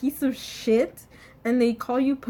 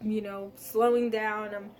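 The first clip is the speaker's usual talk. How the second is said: softer, settling self-talk; calming down; 2 semitones lower, 5 dB quieter than usual. Retold or imitated. Student talking himself down after being scolded, calming. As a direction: soothe yourself, easing off quietly. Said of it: "I start calming down".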